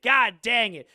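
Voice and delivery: hammed-up exasperation, stress on god; mock frustration. Real, not acted. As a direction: hit god hard in mock dismay. Repeated exclamation.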